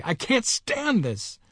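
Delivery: high, slow, hoarse desperation; hoarse cry. A narrator's reading. Mister Button can't bear waiting, hoarsely desperate. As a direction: wail it hoarsely, drawing out each word. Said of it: "he cried hoarsely".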